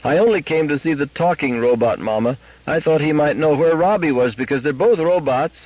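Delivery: put-on aggrieved girl pleading over the noise; grieved child. A narrator's reading. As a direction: protest to mama in a hurt, high voice. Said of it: "Gloria raised her grieved voice over the din".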